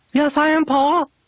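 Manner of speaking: very high, squeaky, tiny puppet voice. During a ventriloquism routine, the puppet answers Paul, in Tonguey puppet voice. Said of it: "ventriloquism routine ... Tonguey, are you there?".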